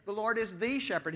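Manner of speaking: second "the" said as a full, emphatic "thee"; stress on "the". Shown as a demonstration. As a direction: punch the "the" before "shepherd". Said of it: "He doesn't even say".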